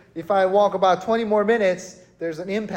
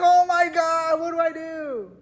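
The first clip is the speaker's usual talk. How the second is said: high-pitched mock despair; retold panic; 9 semitones higher than usual. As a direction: act out a helpless freak-out. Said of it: "and panic".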